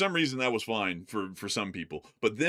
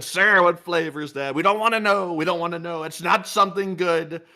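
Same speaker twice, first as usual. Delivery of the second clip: Trump impression; 4 semitones higher, 4 dB louder than usual. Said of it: "They said".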